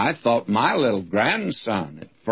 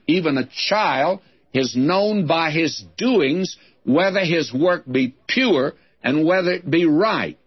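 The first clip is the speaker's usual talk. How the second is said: higher reading, leaning on "pure" and "right"; stress on pure and right; 4 semitones higher than usual. Shown as a demonstration. Preacher reading verse eleven aloud, stressing "pure" and "right". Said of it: "I'll emphasize the word".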